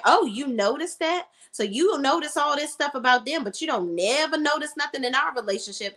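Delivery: mock-offended challenge; accusing. Girlfriend calling out partner over their relationship, accusing.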